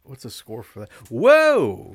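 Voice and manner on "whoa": high loud whoa; sudden startled gasp of a word; surprised. Real, not acted. Seeing the score.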